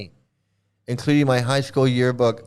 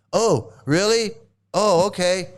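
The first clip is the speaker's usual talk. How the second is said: slow, put-on innocent surprise; fake surprise; 3 semitones higher than usual. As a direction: play dumb, feign being caught out. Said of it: "I would have to act all like".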